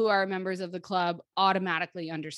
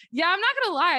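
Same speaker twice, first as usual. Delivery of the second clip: candid admission; 11 semitones higher, 7 dB louder, much faster than usual. Retold or imitated. Recounts own candid admission to Trish.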